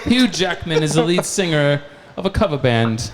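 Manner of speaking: loud fake Australian with a laugh; mock Australian accent. Bandmate joking about a cover band, loud mock Australian accent. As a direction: ham up an Australian accent, amused. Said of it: "Australia-ish? What's going on?".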